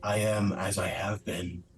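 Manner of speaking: lightly voiced cold warning, slow; a hint of a mournful stranger telling intruders to leave; cloaked weeping woman. Woman in her lair warns the knight away, lightly voiced and slow.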